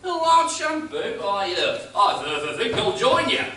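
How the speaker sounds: hesitant stammer, tripping over words; stammering shopkeeper. Acted. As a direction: stutter on the consonants. Arkwright stammering shopkeeper, announced stammer.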